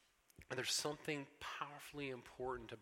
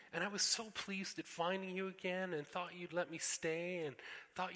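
put-on high, louder wailing girl; a child whose hopes just collapsed; dismayed girl Lucy; 7 semitones higher, 4 dB louder than usual.

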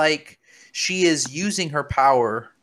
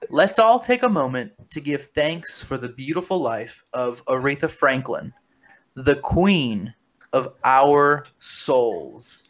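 classic American accent. Shown as a demonstration. Rereading the tweet for listeners who want translation, in an American accent. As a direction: read it again like a plain American, stretching the last words. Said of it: "I'm gonna say that in an American accent".

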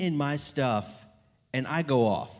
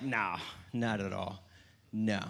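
softer, lower, casual fib; innocent denial; 5 semitones lower, 8 dB quieter than usual. Retold or imitated. Son lying to his mom, quiet and innocent. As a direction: play it cool and innocent.

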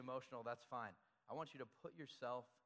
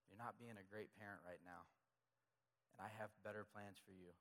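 gentle quiet rebuke; 6 dB quieter than usual. Pretend. God's quiet rebuke, after a sigh.

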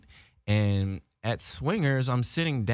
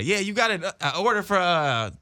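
lightly done comedian impression, pitched up; halting drunk order, higher than usual; Dave Chappelle; 8 semitones higher than usual. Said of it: "In a Dave Chappelle voice".

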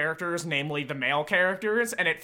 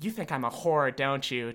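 sultry voice; 4 semitones lower, 4 dB quieter than usual. Retold or imitated. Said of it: "she talks like this".

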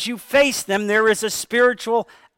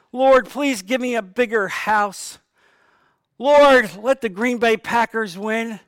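greedy wish-list prayer; 3 semitones higher, slower than usual. Retold or imitated. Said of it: "requests to a hotel concierge".

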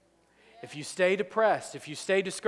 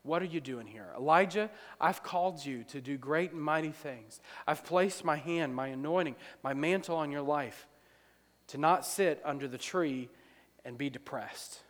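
still small voice; 5 dB quieter than usual. Acted. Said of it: "And the voice said".

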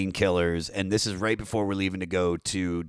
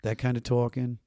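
louder, thick Maryland rolled O's; Baltimore accent; 2 semitones higher, 3 dB louder than usual. Shown as a demonstration. Musician showing off his Maryland accent, thick Baltimore twang. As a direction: demonstrate a broad Baltimore twang. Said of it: "roll my O's and be like".

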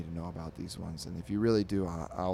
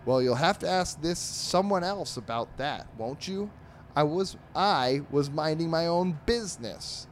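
higher, put-on cartoon dog voice; sulky dog voice; 8 semitones higher, 4 dB louder than usual. Dog dodges the owner's question, lightly voiced huffy cartoon dog. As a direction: play the innocent, mildly defensive.

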